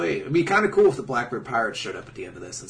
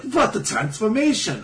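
put-on silly, higher French accent; hammy mock-French exclamation; 8 semitones higher than usual. Cavendish reacting to the transformation, hammed-up French accent. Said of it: "I don't know why he's French".

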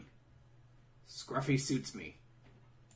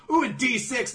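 higher and louder, playful; mock excited; 13 semitones higher, 11 dB louder than usual. Recapping the show, a playful high mock cheer. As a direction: pipe it up like an eager kid. Mocking a character's line.

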